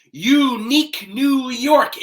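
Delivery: over-articulate "Unique New York", every sound crisp; exaggerated tongue twister. Shown as a demonstration. Coach demonstrating the tongue twister for the class to repeat, exaggerated. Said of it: "Exaggerate the sounds and be louder".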